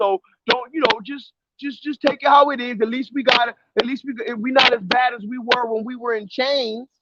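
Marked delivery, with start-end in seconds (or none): none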